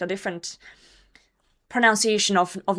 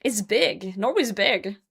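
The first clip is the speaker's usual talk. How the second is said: usual speaking voice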